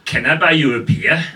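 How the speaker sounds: put-on pickup line laid on in German accent; heavy German accent. German offering a beer to a lady at the bar, German-accented. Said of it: "if I really lay on the German accent".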